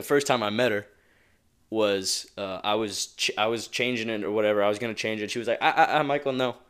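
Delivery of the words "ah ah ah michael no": higher, louder mock scolding; retelling the housekeeper's playful scolding; imitating Evelyn. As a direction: stop him with a playful ah ah ah. Quoting Evelyn stopping him.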